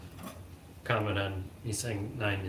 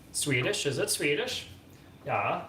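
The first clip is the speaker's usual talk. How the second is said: put-on Swedish accent; 4 semitones higher than usual. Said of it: "really weird Swedish accent".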